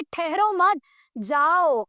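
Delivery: ठहरो मत run together, a break, then drawn-out जाओ; to a grumpy relative. Acted. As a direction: send off an unwelcome relative, pausing after मत. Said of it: "मैं अपने किसी सड़ू रिश्तेदार को कह रही". (ठहरो मत साथ में, रुककर जाओ)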